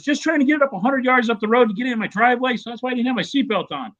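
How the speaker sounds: high-pitched mock indignant rant; mock outraged trucker. Trucker ranting at the judge, hammed-up outrage. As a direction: imitate a worked-up trucker ranting. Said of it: "he's all mad about it".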